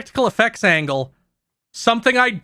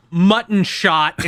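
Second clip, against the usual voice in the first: imitated yell; much slower than usual. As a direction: imitate an attack-name yell, stretching the words. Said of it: "he still yells".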